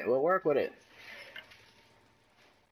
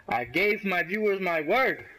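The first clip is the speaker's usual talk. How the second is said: emphatic vow; 3 semitones higher than usual. Real, not acted. Vowing to viewers.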